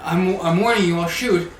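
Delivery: warning yell. Acted. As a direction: yell a warning as a cornered archer. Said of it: "just gonna kinda yell".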